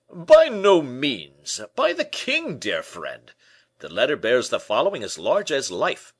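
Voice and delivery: proud Porthos. A narrator's reading. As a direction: puff up with pride at the king's letter.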